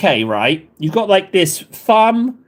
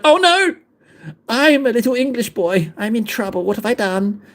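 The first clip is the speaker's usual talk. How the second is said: put-on high-pitched little-boy alarm, easing down; mock panic; 5 semitones higher than usual. English student retelling seeing hostile graffiti in Wales, in mock panic. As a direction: play a frightened little English boy, hammed-up.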